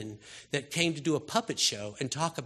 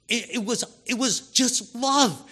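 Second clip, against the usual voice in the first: rising climax; 7 semitones higher, 6 dB louder than usual. Real, not acted. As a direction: lift it with wonder. Preacher's climax on love.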